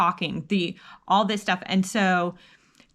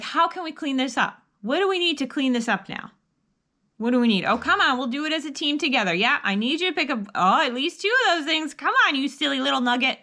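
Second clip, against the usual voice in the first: cheerful coaching; 4 semitones higher than usual. Shown as a demonstration. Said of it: "try saying".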